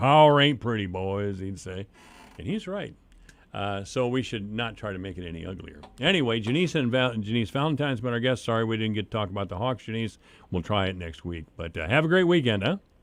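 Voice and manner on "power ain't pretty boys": raised, loud, drawn-out southern drawl. Quoting a former president's words on power: Lyndon Johnson southern drawl. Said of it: "in that southern drawl of his".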